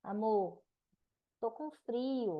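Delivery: slow, gentle plea to her husband; sweet complaint. Shown as a demonstration. Wife hinting to husband she is cold, slow and sweet. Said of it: "Eu falo".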